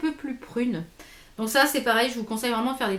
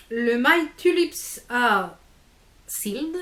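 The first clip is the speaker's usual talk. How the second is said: slow, careful English accent on the product name; much slower than usual. Real, not acted. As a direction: show off an English accent, drawn out. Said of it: "Vous avez vu mon accent anglais?". (accent anglais appliqué)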